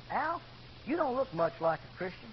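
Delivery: soft, musing self-address; talking to himself. Retold or imitated. Al convicted at his mirror, quiet self-talk. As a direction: say it softly to your own reflection. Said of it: "I said to myself".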